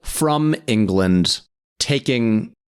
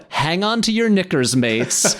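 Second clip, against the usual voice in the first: higher-pitched mock Cockney accent; Basher Tar; 6 semitones higher than usual. Fan quoting the first lines of the movie, imitation Cockney. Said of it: "His, his first lines of".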